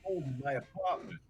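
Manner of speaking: put-on loose, lightly done Australian accent; Australian accent, half laughing through it. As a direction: play it as a laid-back Australian bloke. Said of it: "I don't know why he's Australian now".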